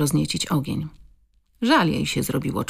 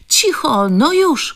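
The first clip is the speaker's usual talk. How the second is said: sharp shout, much higher and louder; 11 semitones higher, 6 dB louder, slower than usual. A narrator's reading. Silencing the barking dogs at the door, loud shout. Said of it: "krzyknęła".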